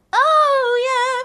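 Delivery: "Oh" sung high with a bare vowel start; the "Oh" without a W. Shown as a demonstration. Coach showing the tense version. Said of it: "if you were to say".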